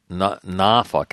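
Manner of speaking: Norfolk said his own way, second syllable clipped short to "fuk"; local pronunciation. Real, not acted. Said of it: "as I say it".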